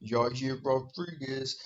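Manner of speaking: slow, lightly imitated tough guy; mock hard man. Mimicking the fighter naming his opponent, slow mock hard man. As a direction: stretch the name out, mocking him. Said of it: "he talks like".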